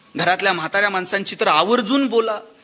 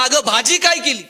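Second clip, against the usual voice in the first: louder retold yell, pitched up; shouted loudly; 4 semitones higher, 5 dB louder than usual. Husband yells at his wife from right behind her, loud shout. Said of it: "आणि जोरात ओरडला".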